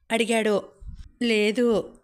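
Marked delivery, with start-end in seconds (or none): 1.2-1.9 understated tearful denial; mildly tearful. Acted. Daughter answering her worried father, mildly tearful. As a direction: answer with a touch of crying. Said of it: "ఏడుస్తూ చెప్పాను".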